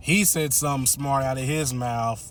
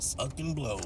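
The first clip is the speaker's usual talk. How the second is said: a much softer, flat "Suck and blow"; muttered aside; 8 dB quieter than usual. Retold or imitated. Narrator repeats the mom's thought, muttered. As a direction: say "Suck and blow" under your breath. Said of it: "that's what she was thinking".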